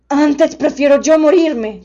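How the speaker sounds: loud, slow heartbroken beast; a big devoted beast pleading; friendly monster voice. A narrator's reading.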